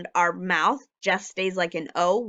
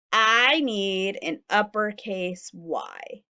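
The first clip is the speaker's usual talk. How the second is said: slow modelling; much slower than usual. Shown as a demonstration. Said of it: "slow modelling".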